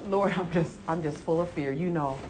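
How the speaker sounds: soft, humble plea building slightly in pitch; understated, pleading example prayer; sample fearful prayer. Pretend. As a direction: model a quiet confession of fear to the Lord. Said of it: "And bring it to Jesus".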